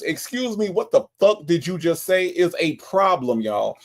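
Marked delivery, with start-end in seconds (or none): 0.0-2.3 indignant demand. Pretend. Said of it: "The fact that nobody says".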